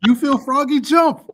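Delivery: loud, high playful dare; mock dare. Playful trash-talk challenge to cohost.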